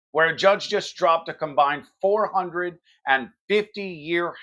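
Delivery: hard-hitting political commentary read; punchy news monologue. Acted. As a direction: deliver it like a cable news opener. Scripted news-style opening monologue.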